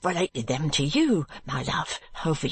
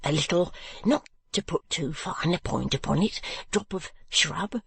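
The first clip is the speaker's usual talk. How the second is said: stammering timid husband; 2 semitones higher than usual. Acted. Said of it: "when his tongue is loosened".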